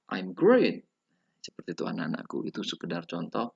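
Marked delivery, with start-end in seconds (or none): 0.1-0.9 "I'm great" loud, peaking high on great; higher final intonation. Shown as a demonstration. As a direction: lift and punch "great", then fall. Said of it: "intonasinya lebih tinggi di belakang".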